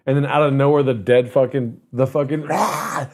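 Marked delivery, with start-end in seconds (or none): 2.5-3.1 short rasping mock screech; sudden zombie jump-scare cry. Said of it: "the zombie comes out of nowhere".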